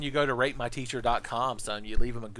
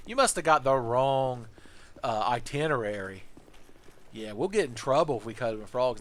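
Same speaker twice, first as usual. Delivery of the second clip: a lightly voiced cocky student, louder; mock student scoffing; 3 dB louder than usual. Student brushing off the teacher, loud and scoffing. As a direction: scoff at the idea like a smug kid.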